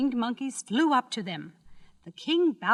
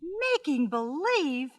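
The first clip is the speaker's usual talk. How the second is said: slow, high incredulous echo; astonished cry; 6 semitones higher, slower than usual. A narrator's reading. Dorothy cries out at the wizard's confession, astonished. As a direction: draw it out in girlish disbelief. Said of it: "cried Dorothy".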